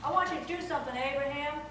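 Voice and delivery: Southern God calling them by name; Southern-voiced God. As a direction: summon each one in a Southern voice. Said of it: "he talks in a southern voice when he talks like this".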